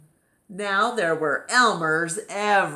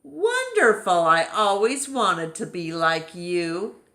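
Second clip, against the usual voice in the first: mock delight; 6 dB louder than usual. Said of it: "said Elmer".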